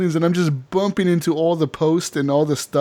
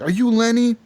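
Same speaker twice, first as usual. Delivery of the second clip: put-on wasted drunk; 7 semitones higher than usual. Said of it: "I'm fucking wasted".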